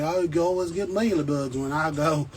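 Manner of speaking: light mock New York accent; New York accent impression. Vlogger imitating New York plant buyers, light New York accent. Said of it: "they talk like this".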